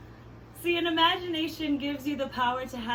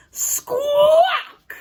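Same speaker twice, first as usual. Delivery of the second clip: summoning shout; 14 semitones higher, 12 dB louder than usual. Pretend. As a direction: squawk shouted very high and loud. Calling the skunk after counting.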